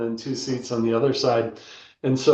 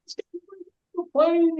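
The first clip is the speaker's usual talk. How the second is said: high, squeaky panicked voice way up the register; mock-squeal like a nervous little kicker; panicky Majkowski. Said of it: "So Majkowski's like".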